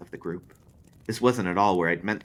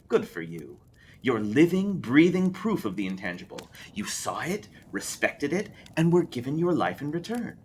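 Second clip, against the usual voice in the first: higher, grandly knowing spindly man; spindly man praising Lou, raised and grand; spindly man preaching; 9 semitones higher, 4 dB louder than usual. Acted. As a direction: sermonize it like a creepy guru.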